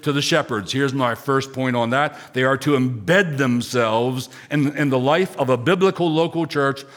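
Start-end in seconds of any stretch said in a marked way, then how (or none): 2.3-4.3 slow down and lean on "embed"; deliberate weight on the word "embed"; stress on "embed". Real, not acted. Pastor gives the congregation his first point, stressing "embed". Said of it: "Emphasis on the word embed".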